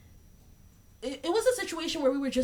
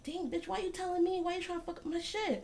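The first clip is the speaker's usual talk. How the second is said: high, laughing disbelief; high laughing indignation at the girl who told on him; laughing mock outrage; 8 semitones higher, 6 dB quieter than usual.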